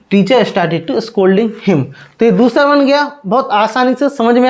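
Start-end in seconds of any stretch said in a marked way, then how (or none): 0.1-1.8 slow dictation. Shown as a demonstration. The teacher reads the finished sentence back, very slowly. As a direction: read the whole sentence very slowly. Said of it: "ठीक है".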